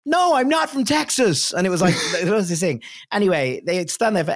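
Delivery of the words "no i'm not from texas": mocking echo. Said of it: "And they were like".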